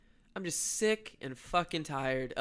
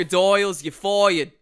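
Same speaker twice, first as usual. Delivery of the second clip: louder, laughing mock Trump firing crocodiles; Trump impression; 2 semitones higher, 9 dB louder than usual. Co-host firing crocodiles in a loud Trump voice. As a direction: bark the firing, half laughing. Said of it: "your Donald Trump accent".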